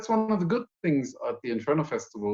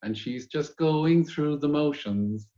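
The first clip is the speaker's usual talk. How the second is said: slow, drawn-out quote; Buffy quote, slow; much slower than usual. Retold or imitated. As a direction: drag it out line by line. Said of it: "I can quote Buffy on this part".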